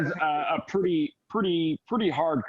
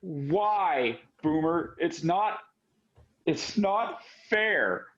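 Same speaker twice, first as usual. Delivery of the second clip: understated tearful plea, slightly raised pitch; acted crying; 4 semitones higher, slower than usual. Crying to Boomer as she is hugged, mildly acted anguish. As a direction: break it with pauses and draw out the last "not fair". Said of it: "she starts, like, crying, and she, and she goes".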